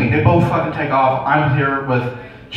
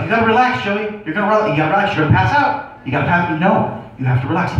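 urgent doctor; 4 semitones higher, faster than usual. Retold or imitated. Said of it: "He's like".

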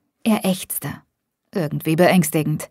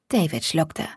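ordinary delivery

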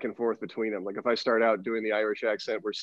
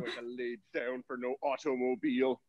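put-on softer, stubborn Irish-accented sheep; muttered Irish defiance, playing a sheep; defiant Irish sheep; 8 dB quieter than usual. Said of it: "They're Irish".

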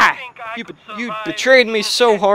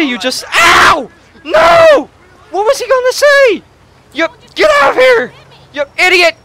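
very high, loud screaming rant; furious screaming; 6 semitones higher, 4 dB louder than usual. Real, not acted. Gamer screaming at the cop who cut off the call. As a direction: lose it at the cop. Cop made him hang up.

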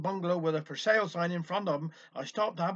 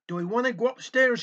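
stiffly polite and louder, pitched up; 5 semitones higher, 7 dB louder than usual. A narrator's reading. Offended house owner asks the visitor, stiffly. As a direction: put a stiff, offended edge on the question. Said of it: "bit stiff-like".

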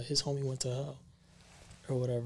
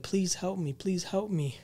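mildly raised imitated plea for help; a touch of desperate begging, retold; pleading; 5 semitones higher than usual. Friend begging Mike for help over the phone, mild mock pleading. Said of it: "he's pleading".

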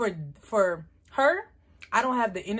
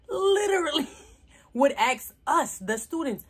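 laughing; 7 semitones higher, 3 dB louder than usual. Real, not acted. Laughing while telling the story.

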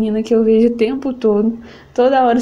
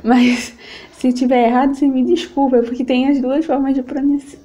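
ordinary talk, nothing marked

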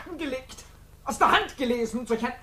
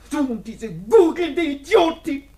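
slow, loud scorn; contemptuous insult; 4 semitones higher, 3 dB louder, slower than usual. Acted. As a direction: drag out the insult. Verena insulting slowly.

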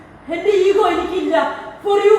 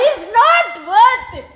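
slow, raised, higher-pitched insistence; emphatic plea; 4 semitones higher, 3 dB louder, much slower than usual. Real, not acted. Urging the angry speaker to stop, slow and emphatic. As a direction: drag the words out to cut through the quarrel. Pleading to stop a heated quarrel.

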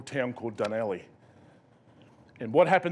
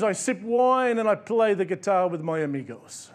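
a light put-on Mexican accent, pitched higher; a touch of Mexican accent, easygoing; 5 semitones higher than usual. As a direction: lightly voice a relaxed Mexican fisherman. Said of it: "I apologise for the accent".

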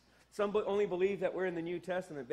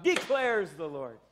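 slow, ringing judge's proclamation; judge shouting out; 2 semitones lower, 4 dB louder than usual. Shown as a demonstration. Pastor showing the church how a judge shouts it out. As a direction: pronounce it like a judge from the bench. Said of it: "like a judge shouting out".

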